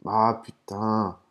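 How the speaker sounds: drawn-out exasperated swearing; real, mild frustration; annoyed with oneself. Real, not acted. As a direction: groan it out slowly, annoyed at yourself. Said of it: "je m'énerve tout seul".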